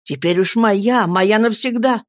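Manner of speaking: happy lover calling out to his Dora; joyful exclamation. Acted. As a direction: declare it with delight. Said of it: "воскликнул я".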